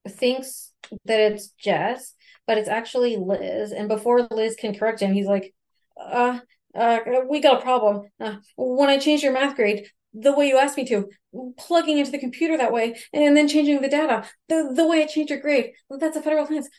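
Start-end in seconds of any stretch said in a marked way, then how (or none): 6.0-16.7 imitating a flustered caller, higher voice; hammed-up worry, stammering into it; retold panic, pitched up; panicked caller. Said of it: "he basically thinks that they've been caught".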